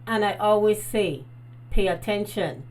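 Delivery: talking with a retainer in; speaking around a dental retainer; wearing a retainer. Real, not acted. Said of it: "my dentist say I have to wear my retainer".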